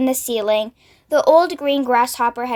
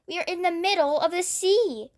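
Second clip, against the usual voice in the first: cried out; 5 semitones higher, 7 dB quieter than usual. A narrator's reading. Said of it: "cried James".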